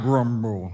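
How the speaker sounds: low, soft grumbled word; grumbling mutter. Retold or imitated. Pastor acts out a grumbling reply, low and soft. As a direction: grumble it under the breath like a sulky kid. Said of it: "all you have to do is hear the word".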